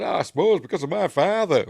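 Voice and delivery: mock Luke, testy. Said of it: "he loses his temper, does Luke".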